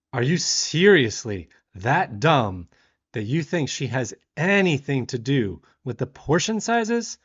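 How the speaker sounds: mildly loud, slow-starting telling-off; retold indignant challenge; incredulous scolding. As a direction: spell it out to someone being dense. Scolding the rude diner.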